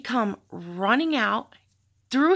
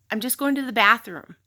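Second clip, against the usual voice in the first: curt, clipped-off retort, a bit louder; short and snappy; 5 dB louder than usual. Retold or imitated. To her boyfriend asking where she's going, snappy. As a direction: snap back, irritated at being questioned. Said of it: "And I said it like that. I was short. I was snappy".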